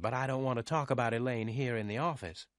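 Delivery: lightly voiced, hesitant young woman; reluctant office girl. A narrator's reading. Susie won't discuss her friend at work, reluctant. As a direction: decline gently in a girl's voice.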